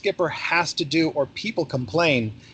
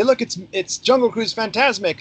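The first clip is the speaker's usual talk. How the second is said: mock announcement; 7 semitones higher than usual. Skipper announcing his night gag.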